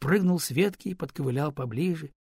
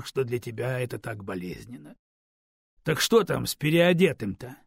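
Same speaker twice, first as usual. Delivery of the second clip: ordinary delivery, nothing marked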